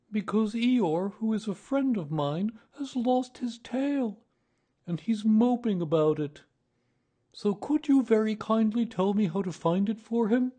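high, loud storybook bear voice; earnest Pooh Bear, troubled. Acted. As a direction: plead for a friend in a high-pitched bear voice.

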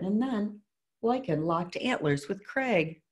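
put-on measured read-aloud to children; story narration. A narrator's reading. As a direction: read a picture book to a class, clearly. Reads picture book aloud.

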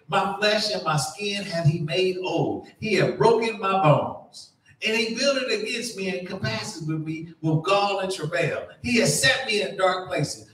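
measured, solemn Bible reading; scripture reading. Acted. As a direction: read it out like holy writ. Reads scripture aloud.

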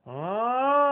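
high bright twangy ah; pharyngeal sound. Shown as a demonstration. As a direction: squeeze a high pinched ah. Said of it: "that whole area".

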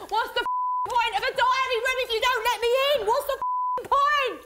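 real fed-up outburst; angry rant. Real, not acted. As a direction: vent at them in frustration. Ranting at the diary room.

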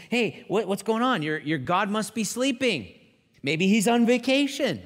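mocking, teasing call; taunting. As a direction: needle them like a heckler. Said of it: "Elijah begins to taunt them".

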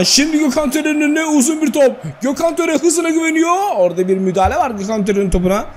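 live football commentator voice; play-by-play. Acted. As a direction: call the game like a TV commentator. Live play-by-play of his game.

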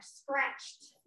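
Scratched said slowly as /skɹætʃ/ with a clear sk cluster; careful pronunciation. Shown as a demonstration. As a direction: pronounce Scratched as one syllable. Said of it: "it's hard to pronounce". (pronunciación cuidadosa de Scratched)

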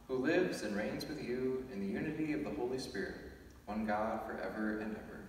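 solemn, measured collect prayer. Real, not acted. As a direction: pray it aloud to the congregation. Priest prays collect aloud.

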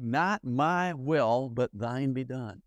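very slow, surrendered prayer; Jesus praying in the garden, very slow and reverent. Acted. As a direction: draw each word out in solemn surrender. Quoting Jesus' prayer in Gethsemane.

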